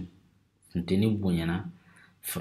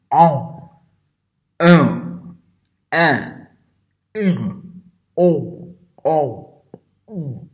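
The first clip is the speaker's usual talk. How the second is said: vowels squeezed out much higher and louder with a blocked nose; nose pinched; 7 semitones higher, 11 dB louder, much slower than usual. Shown as a demonstration. Teacher demonstrating with pinched nostrils, strained and high. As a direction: pinch your nostrils and try the nasal vowels. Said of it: "quand je ferme mes narines".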